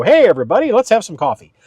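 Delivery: mock morning greeting. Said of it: "I don't wake up in the morning and go".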